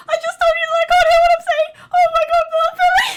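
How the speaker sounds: comic shout at Billy's nonsense; exasperated shout. Acted. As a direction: yell it at Billy in disbelief. Characters arguing, escalating.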